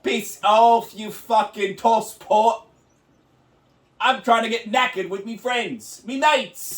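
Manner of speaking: slow hammed-up British tosser; mock British insult. Co-host telling off his mum, mock British accent. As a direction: spit the British swear with relish. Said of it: "mock British mum quarrel".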